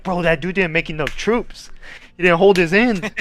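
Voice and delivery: high, loud mock outrage; complaining. Teammates blaming the dropped player, loud mock rant. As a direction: rant about the useless teammate. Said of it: "we would always have a combo like".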